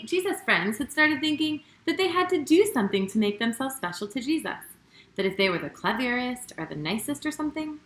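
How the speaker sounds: gentle storybook read-aloud, lively with the quotes; reading to children. A narrator's reading. Children's host reading a Bible story to young viewers, storybook read-aloud. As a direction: tell the story as if to a room of little kids.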